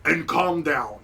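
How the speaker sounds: stern guard. Acted. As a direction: lay down the law. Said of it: "He's like".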